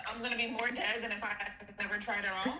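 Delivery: ordinary delivery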